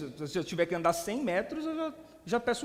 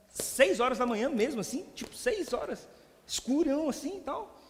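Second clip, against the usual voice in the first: higher-pitched, doubting question; mild incredulity; 5 semitones higher than usual. Retold or imitated. Querying a pastor about a dawn service, mildly incredulous. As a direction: check it in mock disbelief. Acts out his disbelief at early start.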